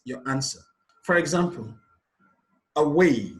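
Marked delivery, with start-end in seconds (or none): 2.8-3.3 "away" with weight on "way"; stress on second syllable. Shown as a demonstration. Teacher giving an example of stress pattern, "away" stressed on "way". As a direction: lean on "way" in "away". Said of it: "placed on the second syllable way".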